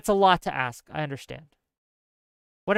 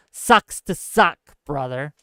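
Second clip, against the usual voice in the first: mock taunt; 4 semitones lower than usual. Quoting the mockers' taunt.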